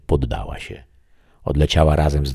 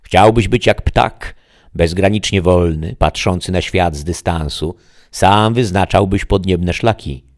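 tempting voice; 5 semitones higher, 6 dB louder than usual. Acted. The voice tempts the shadow to be a bird, raised and eager. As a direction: sell the dream of flight.

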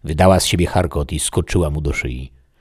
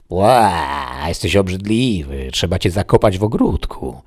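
disgusted outburst; 3 semitones higher than usual. Acted. Dreamer to the sandman he finds hideous, disgusted. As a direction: recoil at an ugly creature. Hero recoils from ugly sandman.

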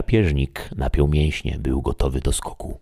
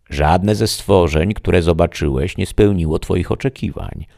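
the voice speaking; 4 semitones higher, 4 dB louder than usual. Acted. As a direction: weigh every word. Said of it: "przemówił głos niespodziewanie".

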